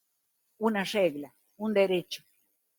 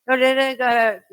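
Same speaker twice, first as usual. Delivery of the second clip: separated words; 7 dB louder, slower than usual. Shown as a demonstration. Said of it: "separando la palabra".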